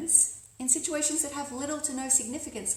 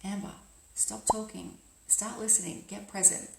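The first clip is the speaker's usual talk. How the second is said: quiet self-talk; 5 dB quieter than usual. Acted. Speaker reminding herself to listen, quiet self-talk. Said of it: "simply say to yourself".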